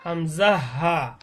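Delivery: হামজা হা drawn out slowly from an open throat; হামজা হা from the start of the throat, unsqueezed; open-throat articulation. Shown as a demonstration. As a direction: say হামজা হা with the throat released, vowels held long. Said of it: "গলা ছেড়ে দিয়ে উচ্চারণ করব".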